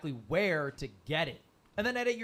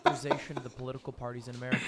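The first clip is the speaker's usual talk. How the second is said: news anchor voice; 4 semitones lower, much faster than usual. Acted. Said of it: "Why do I sound like a journalist?".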